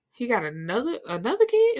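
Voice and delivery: rising to a high, stunned question; incredulous squeak on the last words; mock disbelief. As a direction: act out shocked disbelief, pitch jumping at the end. Acted reaction to a second child.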